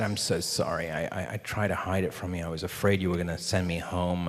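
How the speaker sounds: quiet, mildly contrite confession; retold apology. Actor admitting he hid the injury, softly imitated apology. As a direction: confess softly with stammered starts. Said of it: "I said".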